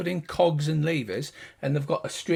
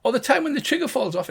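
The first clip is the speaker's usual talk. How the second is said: high gnome voice; second gnome adding another flaw; gnome sidekick; 10 semitones higher, faster than usual. Acted. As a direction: chime in unhelpfully. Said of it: "And the other one goes".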